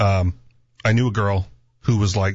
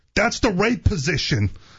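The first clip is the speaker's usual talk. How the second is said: high-pitched yell, called out loudly. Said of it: "my buddy yells out".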